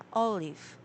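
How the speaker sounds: OLive stressed at the start; olive, weight on the first syllable. Shown as a demonstration. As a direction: hit the OL in olive. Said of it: "the first syllable is stressed".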